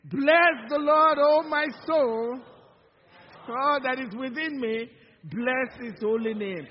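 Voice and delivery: excited recitation. Shown as a demonstration. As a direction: say it like you really mean it. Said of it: "Let's do it again".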